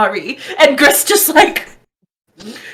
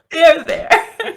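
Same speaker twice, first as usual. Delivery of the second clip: slow, gently laughing comfort; soothing there there; 4 semitones higher, slower than usual. Acted. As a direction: pat her back, there there.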